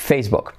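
"Facebook" with book short, like "bok"; correct English Facebook. Shown as a demonstration. Teacher summing up the U as O rule, correct "Facebook". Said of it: "Por lo tanto".

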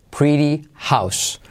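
"pretty" with the t as a soft r, slow; soft t demo. Shown as a demonstration. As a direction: flap the t in "pretty". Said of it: "T como re suave". (la t de "pretty" como r suave)

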